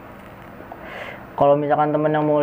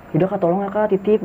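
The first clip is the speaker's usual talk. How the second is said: higher-pitched polite plea; retold appeal, pitched up; earnest request; 5 semitones higher than usual. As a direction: ask a favour, entrusting a friend to them. Retells asking a ranger for help.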